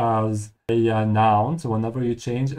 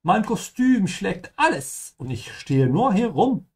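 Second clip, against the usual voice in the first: lightly voiced game girl; 8 semitones higher than usual. Acting the character's line.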